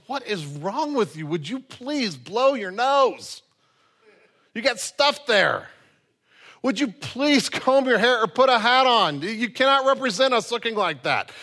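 exasperated coworker. Retold or imitated. Coworker scolding someone who came to work unkempt, exasperated. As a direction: scold a scruffy colleague in disbelief.

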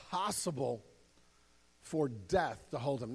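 usual speaking voice

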